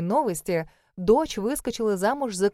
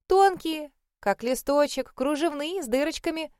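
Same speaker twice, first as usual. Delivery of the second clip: higher, cosy, doting description; good-natured; 6 semitones higher than usual. A narrator's reading. Mother dreamily describes her pancakes to the son-in-law, higher and doting. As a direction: savour each word fondly. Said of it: "благодушно ответила та".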